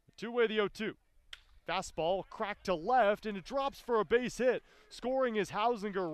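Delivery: high, loud baseball scoring call; excited play-by-play. Real, not acted. Announcer calling two runs scoring on a base hit, thrilled. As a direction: shout the hit out as the runners come home.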